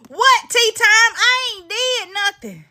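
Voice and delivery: high, whimpering fake protest; hammed-up innocent whimper; mock whiny cry. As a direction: whine it like a caught kid.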